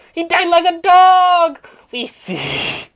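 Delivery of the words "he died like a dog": loud, at normal pitch; a loud triumphant announcement; loud declaration. Acted. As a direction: announce it loudly in your own register. Same line repeated at normal pitch.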